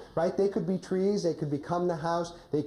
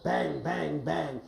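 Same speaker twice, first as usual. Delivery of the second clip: mock knocking; 2 semitones lower, much slower than usual. Shown as a demonstration. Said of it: "So your door is here, wolf".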